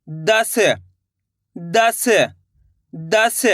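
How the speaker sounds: दस dictated three times, each one set apart by a pause; dictation, word by word. Shown as a demonstration. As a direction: spell out दस for pupils to write, one at a time. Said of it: "इस तरीके से मैं आपको तीन बार repeat करूँगा". (श्रुतलेख की तरह दस को रुक-रुक कर बोलना)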